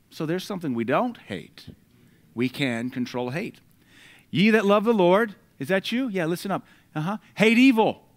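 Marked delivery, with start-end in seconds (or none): 4.3-5.4 loud preaching call. Real, not acted. Preacher calling out scripture. 7.4-8.1 high, loud preacher's cry; thundered command. Real, not acted. Preacher booming the command at his congregation, loud and high.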